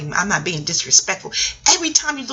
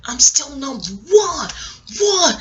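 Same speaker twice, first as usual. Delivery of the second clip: imitating a rapper; 5 semitones higher, slower than usual. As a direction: lightly boast I'm still number one. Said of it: "What else the rapper said".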